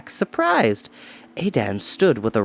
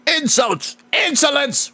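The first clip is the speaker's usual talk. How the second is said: high, outraged roar; 13 semitones higher than usual. Acted. Purple-faced lord roaring at his rival, high and outraged. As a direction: splutter in outrage. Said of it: "roared Gorion".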